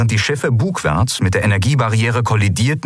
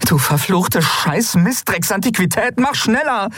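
put-on high, furious cursing at the old ship; frustrated swearing at the machine; 13 semitones higher than usual. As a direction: spit the curse out, much higher. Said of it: "fluchte Endriel".

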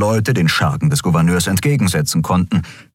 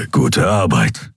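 low, slow creature growl; growled praise; 5 semitones lower, slower than usual. A narrator's reading. Keru praising Nelen over his shoulder, growled. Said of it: "knurrte Kero".

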